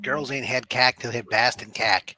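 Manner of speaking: put-on roommate's broad Boston accent. Quoting college roommate's favorite saying, Boston accent. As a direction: imitate a Bostonian's vowel in cack. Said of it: "his favorite saying was".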